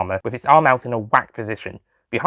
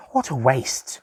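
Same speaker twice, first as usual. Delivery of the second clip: mournful; 4 dB quieter, slower than usual. Acted. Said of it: "Bridget said mournfully".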